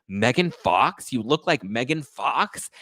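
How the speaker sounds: slow, drawn-out mock disbelief; imitated amazement. Suitor hearing of celebrity lookalike, mock amazed. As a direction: echo the name as an awed question.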